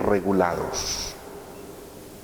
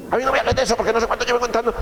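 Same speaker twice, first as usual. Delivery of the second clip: a much higher, fast, exasperated rant; irritated parent outburst; 12 semitones higher, much faster than usual. Retold or imitated. Stressed parent snaps at family member, high fast exasperation. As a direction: fire it off like a fed-up parent slamming out. Upset parent snapping at home.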